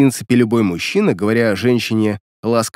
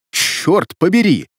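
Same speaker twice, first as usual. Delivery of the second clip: slow, higher-pitched exasperated oath; angry curse; 5 semitones higher, slower than usual. A narrator's reading. Демин losing patience with Светлана, angry. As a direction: draw out the curse in vexation. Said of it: "осерчал Демин".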